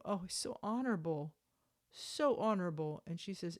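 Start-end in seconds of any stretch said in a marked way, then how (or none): 0.0-1.3 sarcastic. Real, not acted. Mocking the husband's reply. 1.9-3.0 sarcastic. Real, not acted. Repeating the mockery.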